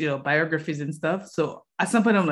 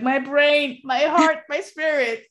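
high, louder gushing; amazed; 9 semitones higher, 5 dB louder than usual. Retold or imitated. After reading the book, high awed gushing. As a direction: gush it, pitched up and loud. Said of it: "I was like".

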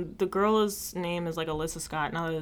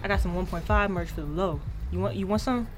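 fast-talking corner merch seller; street hustler; 3 semitones higher, 3 dB louder than usual. Acted. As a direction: hawk it like a street vendor. Hawks merch in a skit.

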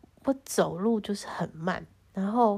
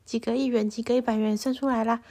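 confused whiny protest. Retold or imitated. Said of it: "我就想说".

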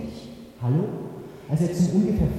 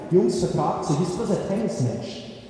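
calling out; 2 semitones higher than usual. Acted.

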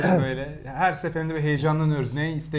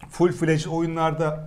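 talking through a mouthful of coffee; words around a sip held in the mouth; mouth full; slower than usual. Real, not acted. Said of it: "Ağzında kahveyle konuşuyor". (ağzı kahve doluyken konuşarak)

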